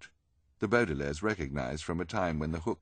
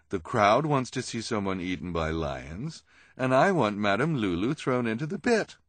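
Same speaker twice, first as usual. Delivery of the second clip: a hint of a theatrical villainess; lightly voiced schemer; 3 semitones higher, 6 dB louder than usual. Esme rallies the freaks.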